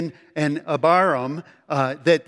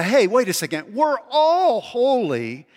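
mocking boast; 5 semitones higher than usual.

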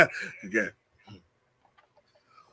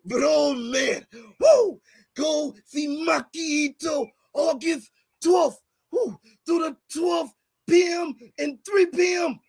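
impersonating friend's promo. Retold or imitated. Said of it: "how you do my impersonation".

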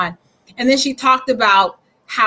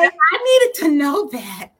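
holding back tears; 3 semitones higher than usual. Real, not acted. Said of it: "well, try not to cry".

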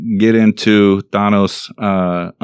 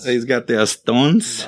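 mock Latin accent; 3 dB quieter, slower than usual. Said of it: "my Latin accent came out".

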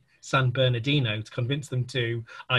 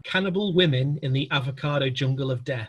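title spelled out slowly and deliberately; slow repeat. Shown as a demonstration. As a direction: say it slowly, word by word. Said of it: "I'll say that again slowly".

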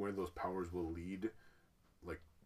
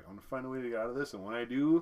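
menacing threat; 5 semitones higher, 8 dB louder, faster than usual. Retold or imitated. Voicing trapped Agatha threatening.

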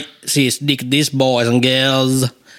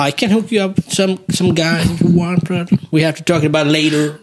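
lightly voiced shady fixer, higher at first; a hint of an English-speaking hustler, pitched up; Pirikobra; 3 semitones higher than usual. Dealer offers his mate a hook-up, lightly put-on English role. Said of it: "Pirikobra puhuu vaan englantia siis".

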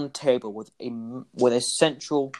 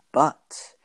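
whisper. Acted. Whispered lead-in.

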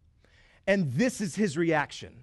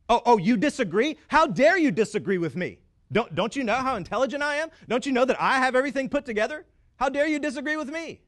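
mock indignant arrogance; 5 semitones higher, faster than usual. Voicing arrogant churchgoer.

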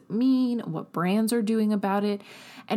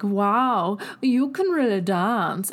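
slow, put-on German accent, louder; 2 semitones higher, 5 dB louder, slower than usual. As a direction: gush in a mock German accent. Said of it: "break into a German accent".

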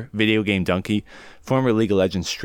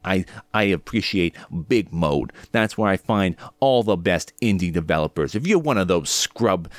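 Dunkey impression. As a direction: drag it out like a deadpan YouTuber. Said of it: "That's my Dunkey impression for the day".

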